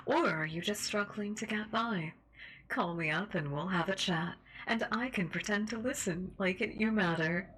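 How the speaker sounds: upbeat call-in show host; radio host voice. Acted. Reads talk show host in character.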